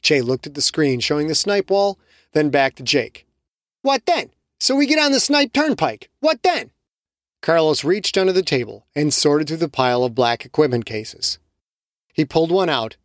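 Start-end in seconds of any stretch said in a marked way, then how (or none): 3.8-6.7 higher, teasing voice; mocking Che. Che teasing Jake, higher mocking voice. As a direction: rib the hunter.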